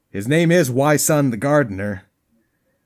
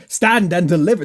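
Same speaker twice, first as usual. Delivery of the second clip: a touch of grand commentary voice; 4 semitones higher, 4 dB louder than usual. Acted. Player demoing his commentary voice, lightly grand. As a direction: declaim Stand and deliver lightly. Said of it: "this commentary voice".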